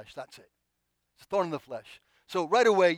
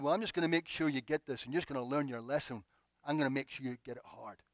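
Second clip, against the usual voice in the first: low, quieter imagined scolding; mock stern lecture; 3 semitones lower, 6 dB quieter than usual. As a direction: lay down a lesson under the voice. Imagined stern Lord, rejected.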